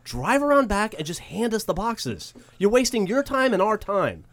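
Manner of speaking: high, scolding lecture; exasperated postal worker. Retold or imitated. Postal worker explaining the loading dock, exasperated. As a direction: tell them off, fed up. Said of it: "and he goes".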